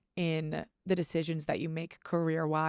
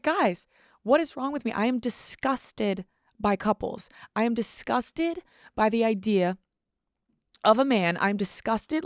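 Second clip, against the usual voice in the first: higher-pitched, hammed-up disgust; disgusted disdain; 4 semitones higher than usual. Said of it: "I have this look of disdain".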